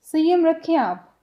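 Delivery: "संयम रखो" drawn out slowly; calm someone down, slowly; slow soothing demo. Shown as a demonstration. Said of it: "सामने वाला बोल रहा है". (धीरे से समझाते हुए)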